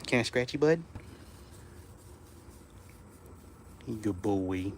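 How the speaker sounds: quiet, low cooing to a dog; soft murmur. Real, not acted. Soothing dog while petting.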